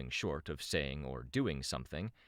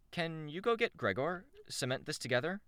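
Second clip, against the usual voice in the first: much higher character voice; lively female character; 13 semitones higher than usual. Acted. Shamrock asked to fetch Gregor, high character voice. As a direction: pitch it up for a chirpy request.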